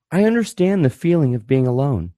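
lightly put-on understanding therapist; mock therapist. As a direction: imitate a counselor's measured empathy. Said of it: "let's do the therapist approach".

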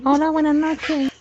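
helium voice. Acted. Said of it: "pero con helio".

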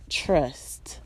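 a knowing whispered "trust"; whispered aside. Real, not acted. Whispering a knowing warning to her viewers. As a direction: drop to a breathy confiding whisper.

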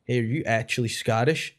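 mimicked American tourist; American stranger's accent. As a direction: ask it in a put-on American accent. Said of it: "a guy came up to him after".

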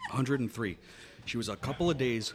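laughing while telling; words through giggles. Real, not acted.

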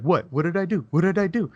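rising, put-on "who, me?" protest; mock innocent protest. Saleswoman protesting she did nothing, mock innocent.

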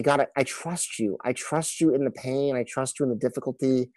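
softly, almost under the breath; a hushed surrender to God; quiet prayer. Retold or imitated. Father in the hospital praying quietly to God.

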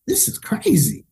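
very high, incredulous exclamation; marvel, pitch leaping way up; stunned high-pitched disbelief; retold amazement. Amazed reaction, repeated.

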